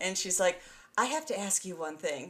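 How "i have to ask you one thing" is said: put-on soft-spoken, gentle Eastern European accent. Retelling what an older night nurse asked: soft-spoken Eastern European accent. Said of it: "sound like sort of Eastern European accent".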